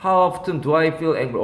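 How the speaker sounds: slow read, often with a clear T; How often, T pronounced; T sounded in often. Shown as a demonstration. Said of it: "often T가 발음이 돼요".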